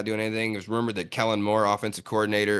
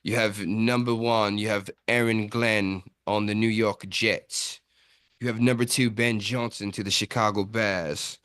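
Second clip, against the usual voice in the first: put-on British accent. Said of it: "Why the fuck are you talking in a British accent?".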